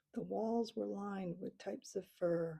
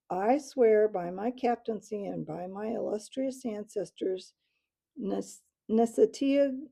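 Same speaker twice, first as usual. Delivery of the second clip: loud formal recitation; recited oath; 9 dB louder than usual. A narrator's reading. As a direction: swear with wing raised. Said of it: "as he recited".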